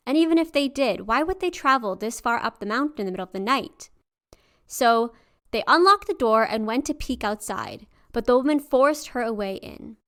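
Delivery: steady storyteller voice; story narration. A narrator's reading. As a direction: read the folk tale aloud.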